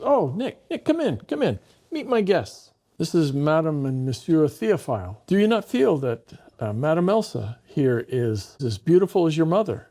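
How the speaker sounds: high, sing-song doting hostess; sweet hostess voice. Retold or imitated. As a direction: gush over the boy in front of guests. Madame Chameau performs for guests.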